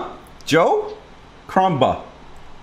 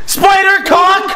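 "Spider cock!" yelled higher and slow, dragging "spider"; mock shout; 10 semitones higher, 6 dB louder, slower than usual. Troll yells "Spider cock!" into the class call, slow and loud. Repeats louder.

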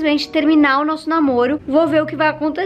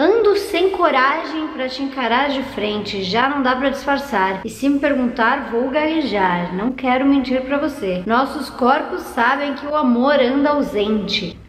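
leitura da letra. Acted. Lê a letra da música.

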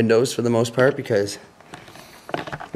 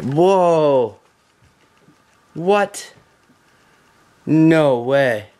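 loud excited whoa; surprised; 4 semitones higher, 4 dB louder, much slower than usual. Real, not acted. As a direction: blurt it out in amazement. Discovers untouched lobby.

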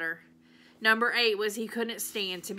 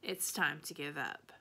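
softer and lower, gently giving in; real soft voice; 4 semitones lower, 7 dB quieter than usual. A narrator's reading. Preacher gently telling Opal to stop, soft voice. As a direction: let the words fall softly, ending the search. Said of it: "said in a real soft voice".

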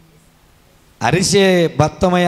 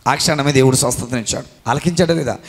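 normal talking voice

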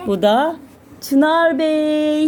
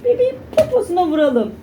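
put-on talking to a baby; 3 semitones higher, faster than usual. Doting on baby.

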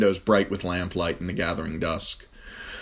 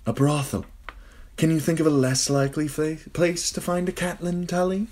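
amused; 11 semitones higher than usual. A narrator's reading. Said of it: "He smiled".

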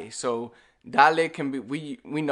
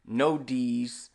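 ordinary talk

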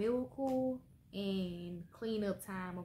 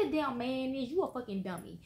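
angry rant; 2 semitones higher than usual. Real, not acted. Ranting at the man.

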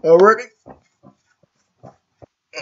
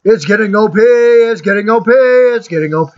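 excited repeating; 6 semitones higher, 4 dB louder than usual. Real, not acted. Repeated excited chant in game.

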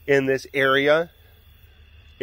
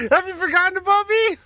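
voicing the cat Raven. Owner voicing her old cat Raven, high and indignant. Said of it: "Raven's like".

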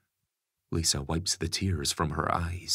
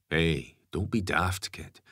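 calm. Acted. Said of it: "Gary says calmly".

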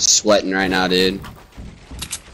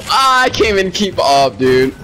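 nervous laughing; 8 semitones higher than usual. Real, not acted. Overwhelmed laugh.

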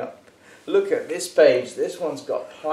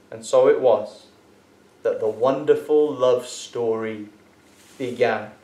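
lively storybook reading, God's lines bold; animated children's story narration; reading to a child. A narrator's reading. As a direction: read it aloud like a bedtime Bible story. Reads a picture Bible to Daniel.

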